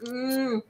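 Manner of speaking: imitated stifled, wordless scream; muffled sleep moan. Trapped dreamer trying to scream awake, stifled moan. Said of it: "all that's really coming out is just".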